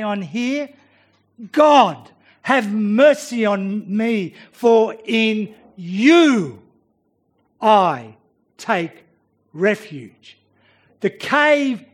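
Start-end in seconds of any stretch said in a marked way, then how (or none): 1.5-10.4 loud cry to God, slow and drawn; David praying for refuge, earnest; fervent prayer. Acted. David prays aloud.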